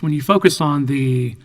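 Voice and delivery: slightly hoarse throat; scratchy voice. Real, not acted. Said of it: "pardon my scratchy voice".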